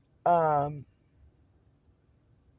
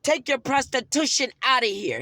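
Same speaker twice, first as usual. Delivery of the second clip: retold angry insult; 3 semitones higher than usual. Quotes the attendant's insult.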